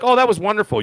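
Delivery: high, pleased gush; acted delight. Viewer fresh from a great movie, acted delight.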